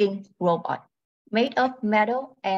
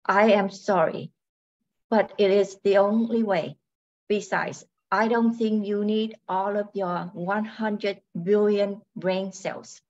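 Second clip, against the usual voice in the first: robot voice. Acted. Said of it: "She speaks in a robotic voice".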